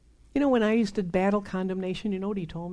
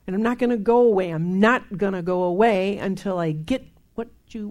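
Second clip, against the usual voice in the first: fast, raised, refusing to go away; loud stubborn vow; 5 dB louder than usual. Retold or imitated. Believer telling the Father he won't leave, raised. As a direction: dig in and push it out.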